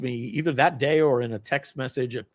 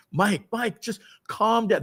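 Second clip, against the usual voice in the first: higher, drawn-out imitation of soothing; placating coworkers; 8 semitones higher, slower than usual. Coworkers calming a colleague who is crying, high placating voice. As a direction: try to settle him down. Coworkers trying to calm him down.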